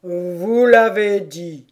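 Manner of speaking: slow, loud, insistent turtle; tortue affirmative. A narrator's reading. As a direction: assert it heavily. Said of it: "affirma la tortue". (tortue qui affirme lourdement)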